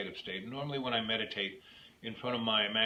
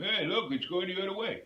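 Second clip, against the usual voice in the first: 1 amazed exclaim; 8 semitones higher, 4 dB louder, faster than usual. Retold or imitated. People in the john marvelling.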